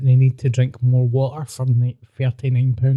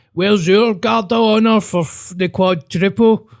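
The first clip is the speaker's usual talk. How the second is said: mocking Celtic fan; 6 semitones higher, 3 dB louder than usual. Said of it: "that were like".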